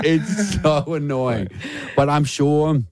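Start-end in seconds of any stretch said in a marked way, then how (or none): 0.0-1.5 drawn-out exasperation. Real, not acted. Exasperated at own habit.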